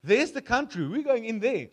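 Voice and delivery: mock rebellious troops; defiant rebels. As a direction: bark it like a mutineer. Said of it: "a bunch of guys like".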